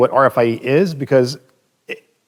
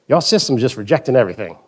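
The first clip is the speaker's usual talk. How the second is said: put-on Mississippi accent. Plant manager confronting Carl at the plant, light Mississippi accent. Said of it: "I'll do my best Mississippi accent".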